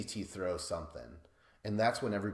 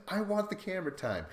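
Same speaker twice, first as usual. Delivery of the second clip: pissed-off imitation; 10 semitones higher than usual. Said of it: "Riff Raff truly is getting pissed".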